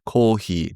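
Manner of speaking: "coffee" said the Japanese way, kohi; Japanese pronunciation. Shown as a demonstration. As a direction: give "coffee" a Japanese sound, short and clipped. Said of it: "that's how you say coffee in Japanese".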